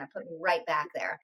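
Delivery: real tears, whispered; barely able to voice it, overcome; breaking into a whisper from real grief; choked whisper. Real, not acted. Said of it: "it got me sobbing again".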